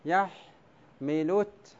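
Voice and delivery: يحملت drawn out very slowly with a rising end, ending on a clear ت; slow scansion. Shown as a demonstration. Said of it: "بعد اللام ماذا نطقت؟". (يحملت ببطء شديد مع ترقيق التاء الساكنة)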